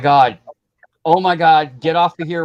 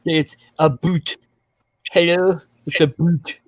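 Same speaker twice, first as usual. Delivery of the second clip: mock Canadian accent; slower than usual. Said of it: "I had a Canadian accent".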